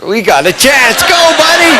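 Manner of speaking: cheering his buddy from the poolside; excited cheering. Retold or imitated. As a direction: yell him on to the finish. Cheering friend on in race.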